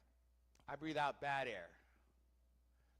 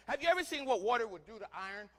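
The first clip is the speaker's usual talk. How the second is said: normal talking voice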